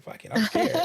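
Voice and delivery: high, put-on frightened squeak; mock scared voice. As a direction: play a coin thief who panics. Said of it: "They said".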